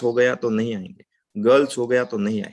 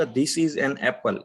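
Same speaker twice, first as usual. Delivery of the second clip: very slow, every word separate; very slow demo sentence; 3 dB quieter, much slower than usual. Shown as a demonstration. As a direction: model it slowly for students. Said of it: "मैं बोलूंगा". (बहुत धीमे, हर शब्द अलग)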